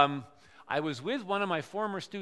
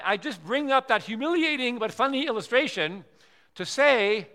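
ordinary talk

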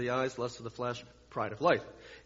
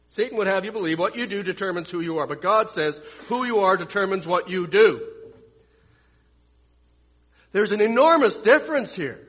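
louder, higher preacher's drive; emphatic preaching; 3 semitones higher, 5 dB louder than usual. Real, not acted. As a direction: preach the contrast with force. Preacher at full force.

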